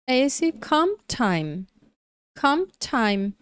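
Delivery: "comp time" with the P blending into the T; pronunciation demo. Shown as a demonstration. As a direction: model "comp time", P swallowed. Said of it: "Tá vendo aí a pronúncia?".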